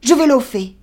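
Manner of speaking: high, loud, urgent shout; anguished cry. A narrator's reading. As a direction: cry out in torment to stop him. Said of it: "Il cria, le cœur torturé". (cri angoissé, le cœur torturé)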